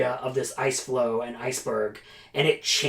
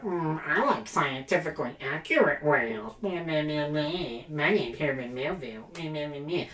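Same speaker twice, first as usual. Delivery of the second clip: nasal-free mock know-it-all, quieter and dismissive; mocking whale pedant; 5 dB quieter than usual. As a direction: lightly sneer it like a fussy nerd. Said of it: "people who's like".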